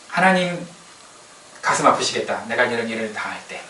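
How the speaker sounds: lightly acted, softening concern for God; sympathetic prayer. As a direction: let the voice sink into quiet understanding. Voices trusting prayer against the complaint. (낮고 차분하게 헤아리는 기도)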